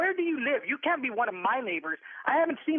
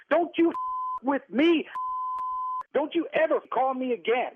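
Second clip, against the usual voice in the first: furious warning. Real, not acted. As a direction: shut him down for good. Furious end to phone call.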